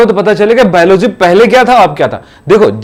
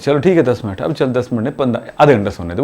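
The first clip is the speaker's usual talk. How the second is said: low, soft, drowsy pleading for more sleep; sleepy kid begging; 7 semitones lower, 7 dB quieter than usual. Retold or imitated. Child begs mother for more sleep, drowsy mumbling. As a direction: mumble like a half-asleep child bargaining.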